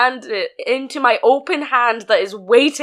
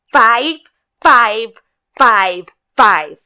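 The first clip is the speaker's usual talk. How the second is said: lightly mimicked insistent customer, louder; mock counting; 8 dB louder, much slower than usual. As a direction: jab out each five like the stubborn customer.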